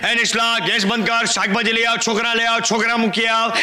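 slow monotone priestly chant; mock katha recital. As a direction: intone the moral like a holy tale. Mock religious-story recital with moral.

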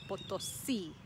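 Potosí with weight on final SÍ; Potosí, light start, stressed last syllable; stress at the end. Shown as a demonstration. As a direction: land on the "sí" of Potosí. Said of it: "The emphasis is at the end".

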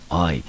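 "I" said as the letter's own name; letter-name vowel. Shown as a demonstration. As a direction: sound out "I" as a long vowel. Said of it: "这个字母就念成I". (按字母音念 "I")

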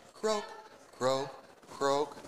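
playful frog croaks. Acted. Teacher croaking like a frog for the kids.

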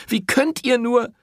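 high, loud repeated reproach; woman erupting at the priest; outraged cry. A narrator's reading. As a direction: burst out with it.

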